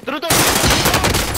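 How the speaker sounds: shouted callout. Real, not acted. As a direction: yell it across to the team. Calling out enemy to team.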